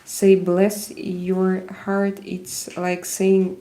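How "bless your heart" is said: slow, drawn-out Southern bless your heart; southern US phrase. Retold or imitated. Viewer quoting a Southern saying, in a slow, light Southern US accent. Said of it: "southern U S when, uh, they say".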